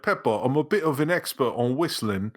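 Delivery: lightly put-on British accent; mock British. Host riffing on the cartoon's dialogue, mock British. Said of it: "Or it'd be like".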